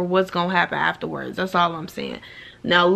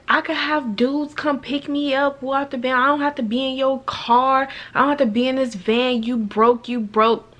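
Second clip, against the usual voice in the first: mock taunting girl; 4 semitones higher than usual. Girl mocking the driver.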